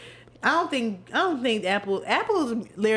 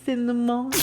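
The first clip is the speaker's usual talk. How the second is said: nasal. Real, not acted. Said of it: "Sorry, I sound nasal".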